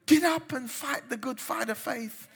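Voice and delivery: rousing shouted exhortation; preaching shout. Real, not acted. Preacher rallying the brokenhearted to get up, shouting. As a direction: call them to fight, full voice.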